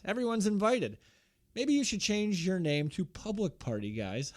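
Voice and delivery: lightly voiced smug wrestler; a hint of a preachy heel; bad acting. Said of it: "great line if he delivered it in, like a normal human being".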